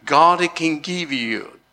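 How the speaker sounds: ordinary talk, nothing marked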